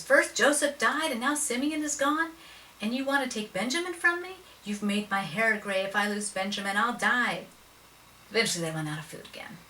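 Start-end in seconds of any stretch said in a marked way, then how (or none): 0.0-7.5 put-on high, loud cry of a grieving old father; anguished father. Jacob begging his sons not to take Benjamin, anguished and loud. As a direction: wail it out as if losing another son.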